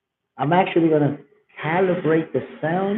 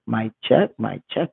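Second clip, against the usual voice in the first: nice voice filter; 5 semitones lower than usual. Shown as a demonstration. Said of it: "this thing be making me have a nice voice".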